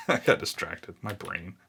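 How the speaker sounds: laughing at himself. Real, not acted. Laughs at his own distraction.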